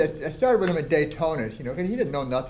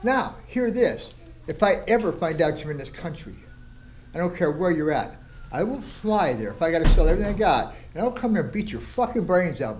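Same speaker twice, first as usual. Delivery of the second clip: pitched-up angry ultimatum to a rival; retold furious threat; 3 semitones higher than usual. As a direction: lay down the threat like you mean it. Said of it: "I was so furious".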